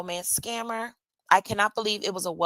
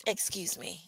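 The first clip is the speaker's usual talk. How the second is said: hushed apology; 2 semitones lower, 11 dB quieter than usual. Real, not acted. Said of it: "corporate voice".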